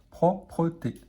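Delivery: slow syllable-joined reading; careful teacher blending; blended slowly. Shown as a demonstration. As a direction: read "Propreté" slowly, syllable by syllable. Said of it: "Alors là, P-R-O".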